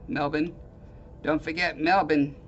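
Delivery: light stab at an Australian accent; amateur Australian accent, lightly put on; attempted Australian accent. Shown as a demonstration. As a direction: try out an Australian accent on the city name. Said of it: "That was my attempt at, uh, Australian accent".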